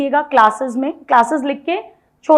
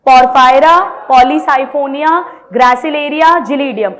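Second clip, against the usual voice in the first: each name called out louder, drawn out; call out together; 5 dB louder, much slower than usual. Shown as a demonstration. Teacher asks class to say names with her, calling loudly. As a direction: lead a loud chorus of names. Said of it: "बोलो मेरे साथ".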